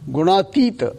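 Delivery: Gunatita, each syllable spoken clearly; Sanskrit term. Shown as a demonstration. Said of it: "they call it gunatita".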